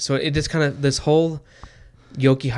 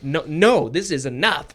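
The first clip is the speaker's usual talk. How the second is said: pretend stand-up; 5 semitones higher, 9 dB louder than usual. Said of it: "be like".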